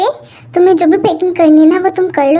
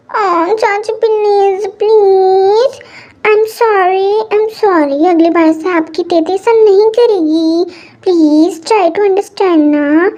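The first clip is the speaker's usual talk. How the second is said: put-on childish pleading; 2 semitones higher, much slower than usual. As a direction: coax the aunt like a sulky child. Daughter begs aunt for forgiveness. (धीमी, खिंची हुई बच्ची वाली मिन्नत)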